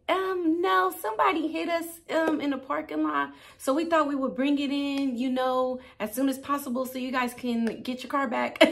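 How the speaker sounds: high, sweet, too-polite cover story; fake innocent. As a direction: play it innocent for the rental clerk. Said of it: "I was like".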